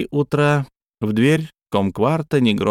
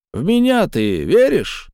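high, slow otherworldly question; eerie creature voice; 10 semitones higher than usual. Acted. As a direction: ask like a looming spirit.

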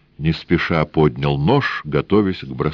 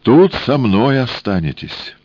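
higher, slow, deliberate threat; 8 semitones higher, 4 dB louder than usual. A narrator's reading. Death tells her lovers they stay, slow and loud. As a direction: lay down the sentence slowly.

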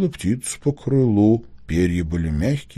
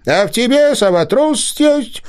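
high, lightly offended fox cub; a touch of hurt pride; offended fox grumble; 3 dB louder than usual. A narrator's reading. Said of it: "обиженно проворчал лисёнок".

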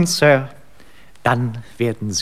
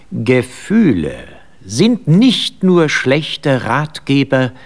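quoting his lord; slower than usual. Acted. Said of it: "pflegte in derartigen Situationen zu sagen".

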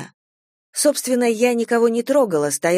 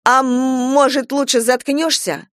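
loud, high mocking copy of the stammer on м-; 6 semitones higher, 3 dB louder than usual. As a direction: mimic her stammer cruelly. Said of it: "с неожиданной точностью изобразив моё заикание".

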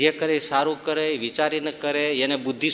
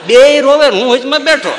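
laughing retelling; 8 semitones higher, 13 dB louder than usual. Real, not acted. Comic tale of both crying.

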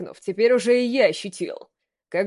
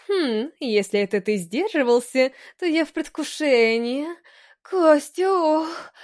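breathy cutesy giggly; 5 semitones higher, slower than usual. Acted. Female character teasing lines.

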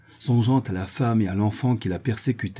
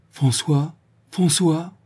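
calling a name after him, higher; 7 semitones higher, much slower than usual. A narrator's reading. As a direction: call after him as he runs off. Calling after her son.

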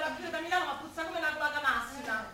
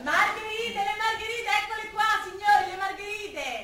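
a higher singing street cry; lightly pitched-up market cry; vendor's sing-song call; 5 semitones higher than usual. Acted. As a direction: hawk the daisies to passers-by. Flower seller calling out wares.

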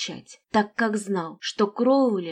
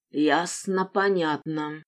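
rumbling voice; 3 semitones lower, slower than usual. Acted. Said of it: "ракочущий голос".

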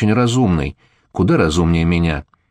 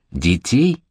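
gasping in shock. Acted. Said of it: "Ахнула Сандра".

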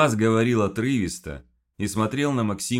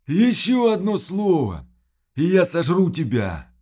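rumbling threat; 12 semitones higher, 9 dB louder than usual. Acted. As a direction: threaten to devour him. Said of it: "пророкотал Квас".

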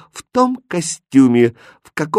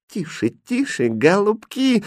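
high, urgent hush; nervous, high-pitched warning; frightened hushing; 9 semitones higher, slower than usual. A narrator's reading. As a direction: shush them in alarm. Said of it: "испуганно сказал Шут".

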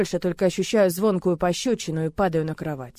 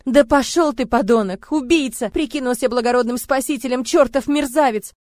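furious screaming; 6 semitones higher, 8 dB louder than usual. Acted. Heroine screaming accusations at Murat, furious. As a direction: hurl every word at him. She keeps cursing him.

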